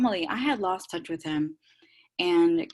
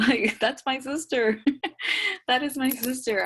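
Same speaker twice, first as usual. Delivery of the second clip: high-pitched giggly gushing; laughing affection; 7 semitones higher than usual. Real, not acted. Gushing to the group about a new friend, laughing and high. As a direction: say it through a laugh.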